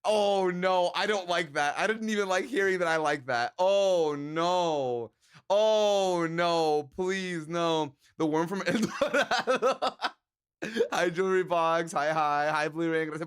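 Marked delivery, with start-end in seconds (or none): 3.6-7.9 dismayed cry. Real, not acted. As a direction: recoil in disgust. Reacting to a gross comment.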